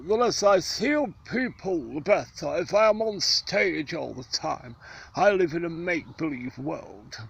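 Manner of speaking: lofty luvvie declaiming; Sir John Gielgud. Retold or imitated. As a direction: intone it like an old stage knight. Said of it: "that's what Sir John Gielgud would say".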